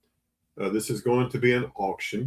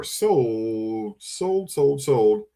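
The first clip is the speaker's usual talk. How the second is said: auctioneer calling sold; much slower than usual. Real, not acted. Auctioneer calls the sale.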